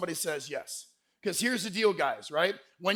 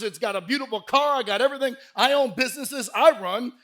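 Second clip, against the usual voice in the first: mock bragging, voice raised; imitation of a show-off suitor; boastful list; 4 semitones higher, 5 dB louder than usual. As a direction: rattle off the brags with gusto.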